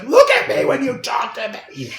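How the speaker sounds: high, loud furious yell; angry shout. Retold or imitated. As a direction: bark it out as an order. Dennis slams fist, yelling.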